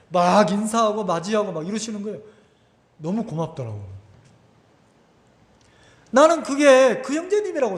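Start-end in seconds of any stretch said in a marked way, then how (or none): none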